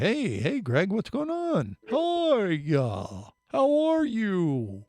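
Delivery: high, slow, drawn-out turtle voice. Retold or imitated. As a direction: stretch each word like a sleepy turtle. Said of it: "I like your turtle voice".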